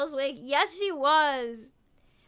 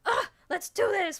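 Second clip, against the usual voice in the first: mock bad attitude; 5 semitones higher than usual. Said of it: "with a bad attitude".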